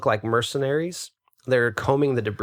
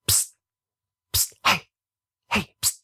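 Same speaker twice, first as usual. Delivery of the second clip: psst for attention; 8 semitones higher than usual. A narrator's reading. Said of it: "You hear".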